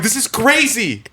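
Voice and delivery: high, drawn-out excited exclamation; retold excitement. Telling a schoolmate at the car window, excited amazement. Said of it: "I'm, like, really excited about it".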